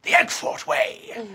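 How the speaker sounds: sudden high, slow squeak on the tagline; squeaky flourish. Acted. Principal crowing his school motto, high and slow. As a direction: pop the motto up high and drawn out. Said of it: "he goes".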